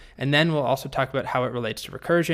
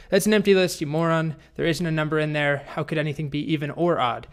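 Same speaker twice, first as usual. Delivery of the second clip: upset dragon; 3 semitones higher than usual. Retold or imitated. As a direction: act out an indignant dragon scolding someone. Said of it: "the dragon is very upset".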